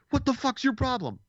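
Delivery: high, snapped-out imitation of a rude driver; imitating a hostile driver, high; mock angry driver. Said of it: "They'll be like".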